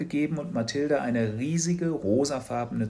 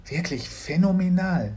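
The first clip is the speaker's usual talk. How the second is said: Mama; 7 semitones higher, 4 dB louder than usual. A narrator's reading. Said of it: "sagte sie".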